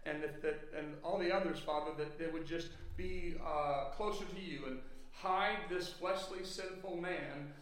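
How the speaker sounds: earnest pulpit prayer; public prayer. Real, not acted. Pastor prays over his hearers before the message, prayerful. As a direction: pray aloud for the congregation, measured and sincere.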